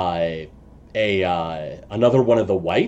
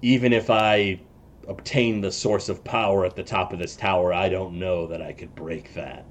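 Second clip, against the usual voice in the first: lightly voiced character, trailing softer and lower; a hint of an in-character voice, sinking quieter; Necrosaro; 3 semitones lower, 4 dB quieter than usual. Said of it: "Necrosaro looks over the case, and he says".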